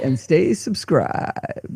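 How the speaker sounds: soft, breathy, creaky vocal fry throughout. Joking with the other speaker that they invented it, the speaker shows vocal fry. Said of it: "I actually must have invented vocal fry because I say".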